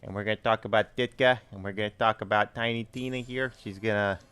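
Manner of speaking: put-on thick Chicago Bears fan accent. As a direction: talk like a Chicago Bears superfan. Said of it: "Em wants to hear me do Chicago Bears accent".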